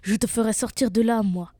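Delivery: a touch of a ferocious howl; mild ferocious yell. Acted. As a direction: raise your voice as the menacing wolf. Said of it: "hurla férocement le loup".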